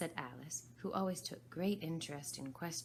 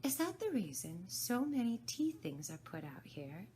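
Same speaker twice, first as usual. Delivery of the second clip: put-on lightly raised girl's voice; a curious girl with a bright idea; Alice voice; 5 semitones higher, 3 dB louder than usual.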